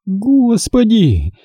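Господи roared high and drawn out; roaring. Acted. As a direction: bellow Господи in fury. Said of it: "взревела дочь".

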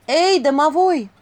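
high, loud, drawn-out call. A narrator's reading. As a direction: call for the house spirit from the doorway. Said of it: "позвала Василиса с порога".

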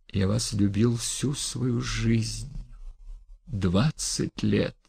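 slow, soft and sincere; tender confession. Acted. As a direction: confess a lifelong love.

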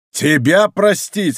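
high, slow, incredulous scorn; гневный отказ. A narrator's reading. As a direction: throw the plea back at him. Avenger scornfully refuses forgiveness. (с гневным презрением)

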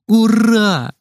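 put-on boy cheering that he goes to camp with his friend; joyful shout. A narrator's reading. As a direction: shout it for joy. Boy rejoicing, shout heard.

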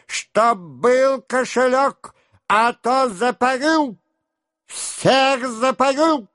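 high, slow threatening yell; angry shout. A narrator's reading. Denisov threatening to flog the servant. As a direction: drag out each threat in fury. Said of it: "кричал Денисов".

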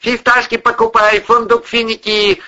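put-on high market-seller call in an Asian accent; strong Asian accent. A narrator's reading. Monster outside hawking nuts, strong Asian accent. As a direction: hawk it with a thick Asian accent. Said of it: "голос с сильным азиатским акцентом".

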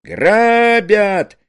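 high, loud scream; scream for help. A narrator's reading. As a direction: shriek it in panic. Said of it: "Не ори!".

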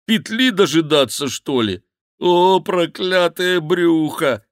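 wailing monk bewailing his fatness; crying out. Acted. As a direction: curse his own belly in despair. Monk lamenting.

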